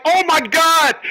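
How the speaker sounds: very high, mock squeal of delight; excited gasp. Relative gushing at the hospital, high squeal.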